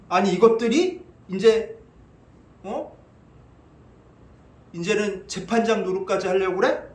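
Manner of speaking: mildly acted indignation; angry Pilate. Pilate reacting to priests playing judge, mildly angry. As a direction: grumble like an affronted governor. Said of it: "빌라도가 화가 나죠".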